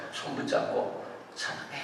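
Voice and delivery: whispered lover's declaration; acted hushed confession. Preacher acting lover holding hands, hushed confession. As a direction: drop to a soft, intimate whisper.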